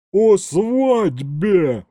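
loud, high, drawn-out roar; exasperated bellow. A narrator's reading. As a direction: roar it out in outrage, stretching the words. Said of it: "взревела она".

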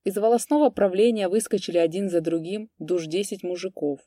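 ordinary delivery

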